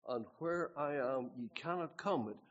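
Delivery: solemn, slow scripture quote; Jesus' words. Retold or imitated. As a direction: pronounce it gravely and slowly. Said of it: "Here's what Jesus said".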